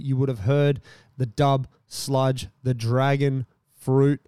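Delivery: even, measured podcast ad read; sponsor ad read. Real, not acted. Podcast host telling listeners about Dubby, measured ad read. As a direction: read the sponsor copy smoothly and evenly.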